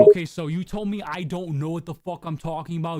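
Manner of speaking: loud and heated; loud outburst. Real, not acted. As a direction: blurt it out in anger. Heated argument, bursts out.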